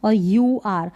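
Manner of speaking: "आई आर और यू आर" slow and spaced; slow spelling. Shown as a demonstration. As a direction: spell the letter pairs slowly. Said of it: "अर करके किस किस का sound". (धीरे धीरे अक्षर बोलते हुए)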